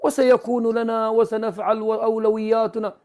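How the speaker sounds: drawn-out parody of official thanks; mock victory speech. Debater parodying the other side's Security Council thanks, mocking. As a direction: imitate a self-congratulating diplomatic address.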